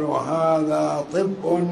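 طب as "ṭibbun", i after the heavy ṭ; kasra on ṭā'. Shown as a demonstration. Teacher shows students the i form, طب as ṭibbun. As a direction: draw out "هذا", then say طب with a short i. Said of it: "بكسر الطاء".

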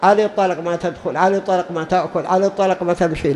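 quick, offhand repeated oath; mock husband swearing divorce fast; imitating a careless oath. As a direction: rattle it off like a habit. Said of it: "دائمًا يقول".

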